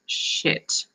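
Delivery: a quick breathless whisper; whispered curse. Retold or imitated. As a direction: whisper it under your breath, caught off guard. Inner panic seeing co-worker.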